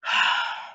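long unvoiced sigh. Real, not acted. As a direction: let the breath out audibly. A sigh between lines.

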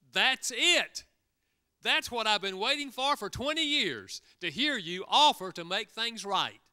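high, loud burst of relief from the wife; excited wife. Retold or imitated. Wife to husband after twenty years, excited relief. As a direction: let it burst out, finally vindicated. Wife finally hears restitution offered.

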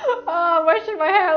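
high, hammed-up weepy wail; mock crying. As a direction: imitate crying in the shower. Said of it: "I cry".

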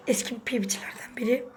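quick unvoiced aside to the viewers; whispered aside. Real, not acted. Telling viewers about a player, whispered aside. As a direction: drop to a whisper mid-sentence.

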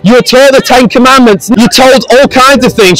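street preaching. Real, not acted. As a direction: call out to a passing crowd. Preaches to the passing crowd.

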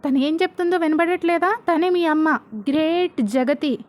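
a father yelling out the truth at his daughter; mock yell at the daughter about her mother; shouting. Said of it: "Hegde ఇలా అరుస్తాడు".

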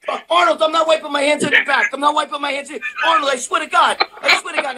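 frantic denial, voice up high; Preston freaking out. Retold or imitated. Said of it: "He had a fucking meltdown".

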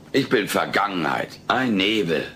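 sinking into melodramatic self-pity; theatrical self-pity. Acted. Houseguest bemoans being replaced, self-pitying. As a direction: lament yourself, pitch gradually dropping.

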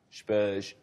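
one-word football commentator impression; John Motson. Shown as a demonstration. Panellist doing his one impersonation, a football commentator. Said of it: "John Motson, the great football commentator".

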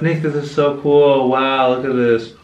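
slow, drawn-out marvelling; retold wonder. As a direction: marvel at it, stretching the words. Retelling own wonder deep in cave.

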